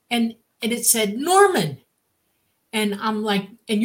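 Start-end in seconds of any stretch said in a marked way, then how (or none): 1.2-1.8 device voice. Retold or imitated. Voicing the device's reply.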